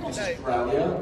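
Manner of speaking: drawn-out Aussie "Australia" with a rising end; slow Australian accent. Shown as a demonstration. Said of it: "I'm gonna say it again".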